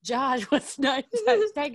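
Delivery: high taunt broken by a laugh. Retold or imitated. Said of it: "he kept yelling to him".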